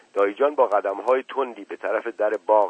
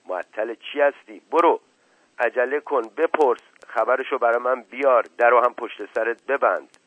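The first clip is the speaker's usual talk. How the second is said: impatient orders; 4 semitones higher, 6 dB louder than usual. Acted. Uncle urgently orders servant off.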